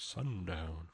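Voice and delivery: low, soft cowboy drawl. Shown as a demonstration. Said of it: "With a cowboy voice".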